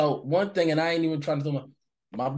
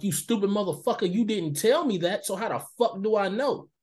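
retold indignant retort; 4 semitones higher than usual. Retold angry retort to co-worker.

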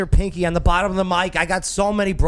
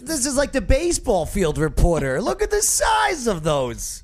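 stifled giggles; 7 semitones higher than usual. Real, not acted. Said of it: "I'm trying not to laugh".

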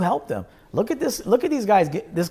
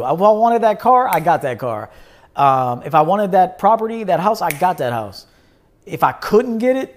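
higher and louder, proud and pumped; excited boasting; 4 semitones higher, 4 dB louder than usual. Real, not acted. Bragging to viewers about his car and house, pumped up. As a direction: crow about every win.

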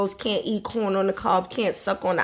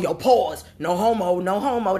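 mocking grown man. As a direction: send up the guys who say no homo. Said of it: "but they going".

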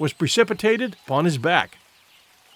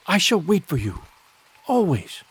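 ordinary delivery, nothing marked

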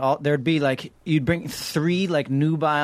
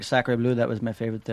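put-on French accent; 4 semitones lower than usual. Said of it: "exactly like that".

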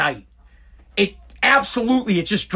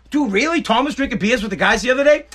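mock interest; 3 semitones higher than usual. Shown as a demonstration. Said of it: "I rephrase it with, like, a question".

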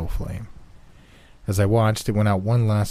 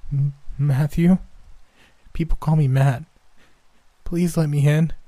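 put-on high, scared child voice; pleading little boy; 7 semitones higher than usual. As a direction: beg to be let in. Boy answers, pleading at window.

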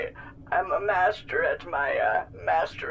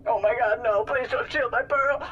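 mock gasp; 5 semitones higher, 3 dB louder than usual. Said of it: "Calcifer clutching his pearls".

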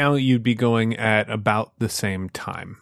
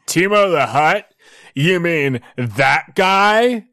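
higher, surprised alien voice; character voice; 5 semitones higher, 4 dB louder than usual. Acted. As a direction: voice the NPC puzzled. GM voices NPC.

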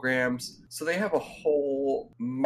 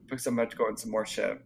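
fast, quiet before a sip; while sipping a drink; 4 semitones lower, 5 dB quieter, much faster than usual. Real, not acted. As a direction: talk around a drink. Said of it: "let me take a sip".

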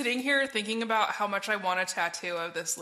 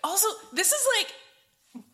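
laughing; 9 semitones higher, slower than usual. Real, not acted. Laughing through the words.

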